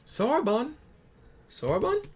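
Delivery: high loud calls; calling out. Acted. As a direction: call out for him, puzzled. Calling for the missing student.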